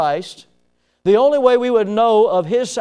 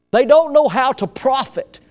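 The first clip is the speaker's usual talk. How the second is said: repeated in the same higher country radio voice; country accent; 6 semitones higher than usual. Retold or imitated. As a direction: say it again as the country radio planner. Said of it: "it sounded just like that guy".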